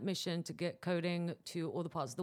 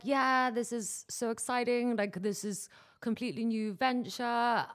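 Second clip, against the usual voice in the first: recalled excitement, pitched up a little; higher, lightly gushing retelling of excitement; excited; 5 semitones higher, 4 dB louder than usual. Retold or imitated. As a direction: re-enact being thrilled about a new venture. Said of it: "I think I was really excited".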